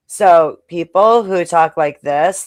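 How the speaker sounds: slow, with the voice rising on "like this" as if asking; uptalk demo. Shown as a demonstration. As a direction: show the uptalk: lift "this" up at the end of the sentence. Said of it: "their voice comes up at the end".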